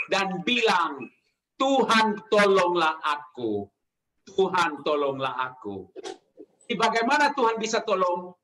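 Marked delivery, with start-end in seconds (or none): 1.6-5.9 modelled plea. Retold or imitated. Preacher models a prayer for help.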